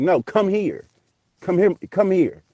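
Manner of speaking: high, urgent retold summons; acted repeated call; imitated insistent calling. Retold man insisting he come over.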